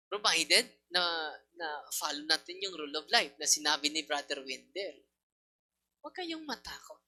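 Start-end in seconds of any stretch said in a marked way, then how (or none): 6.0-7.0 reassuring. Real, not acted. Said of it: "repeated reassurance".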